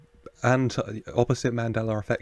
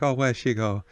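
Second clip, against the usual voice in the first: hammed-up Italian accent, a touch louder; mock Italian accent; 3 semitones higher, 5 dB louder than usual. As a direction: play a worried Italian spotting the doll, loosely accented. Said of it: "I don't know why I did that Italian".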